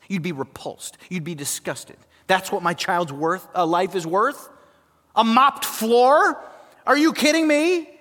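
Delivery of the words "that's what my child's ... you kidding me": rising incredulous outrage, slowing on a mopped floor; a grieving parent, indignant at the insult; outraged parent. Retold or imitated. Preacher voicing an outraged parent, incredulous.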